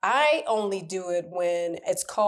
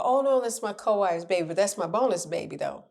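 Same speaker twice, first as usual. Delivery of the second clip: gentle correction; 3 semitones higher than usual. Retold or imitated. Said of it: "I'll just gently correct them".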